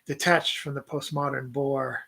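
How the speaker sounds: reads the poem aloud in a light put-on accent; lightly accented poetry recital to a podcast co-host; poem reading accent. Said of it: "I seem to read better when I do this accent".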